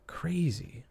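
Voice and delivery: a stunned whisper to yourself. Real, not acted. Stunned by the evidence.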